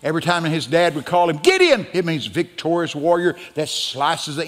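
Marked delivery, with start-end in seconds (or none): 1.4-1.8 dad calling his son, high and loud. Acted. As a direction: holler the name sharply higher. Imitates dad calling his son's name.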